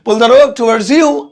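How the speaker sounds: "pull the rope towards you" in one slow run; whole phrase slowly. Shown as a demonstration. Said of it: "सामान का नाम ले देता हूं". (पूरा वाक्य एक साथ धीरे)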